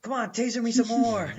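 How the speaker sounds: imitation of a defiant action hero, not shouted; taunting cursing. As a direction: dare them on, half-acted. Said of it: "he starts cursing".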